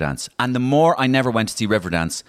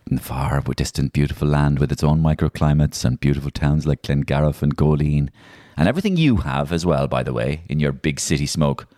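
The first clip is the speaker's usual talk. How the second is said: lower, grand storyteller voice; mock-epic storytelling; 5 semitones lower than usual. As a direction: narrate a far-off land, tongue in cheek.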